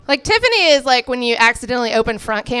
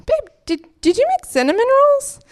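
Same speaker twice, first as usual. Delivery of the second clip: very high, sweet mock-excited question; hammed-up girlfriend squeak; hopeful girlfriend; 14 semitones higher than usual. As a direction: ask in a tiny hopeful high voice. Hopeful question to boyfriend, acted.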